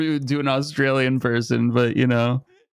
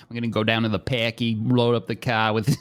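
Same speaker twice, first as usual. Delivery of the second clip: put-on Boston accent. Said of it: "the most gnarly Boston".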